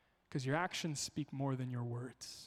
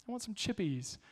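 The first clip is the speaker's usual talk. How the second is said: higher, whining "I want some chippies"; toddler voice; 5 semitones higher than usual. Retold or imitated. Toddler whines to dad for bedtime chips. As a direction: mimic a pouting toddler. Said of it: "is how she says it".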